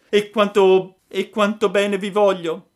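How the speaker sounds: high, loud, heartfelt puppet cry; loving puppet. Acted. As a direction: gush your love like a small boy. Pinocchio declares his love. (burattino affettuoso, voce alta e forte)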